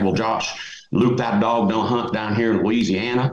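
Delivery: a hint of a Louisiana accent, folksy saying; thick Louisiana accent. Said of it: "Got a big, thick Louisiana accent".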